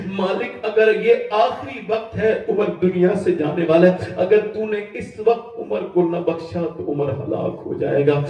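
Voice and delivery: pleading prayer. Acted. Umar's dying prayer voiced.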